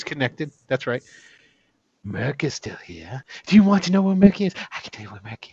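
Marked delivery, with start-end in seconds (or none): 2.0-5.5 teasing non-player character. Acted. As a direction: play a teasing fey informant. Game master voices a creature character.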